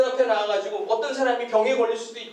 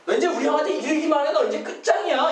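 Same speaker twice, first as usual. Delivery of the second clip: quick, higher mock threat; cocky kid threat; 4 semitones higher than usual. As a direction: rattle off a child's boast about big brother. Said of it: "이런 말투예요". (형 믿고 큰소리치는 아이 흉내)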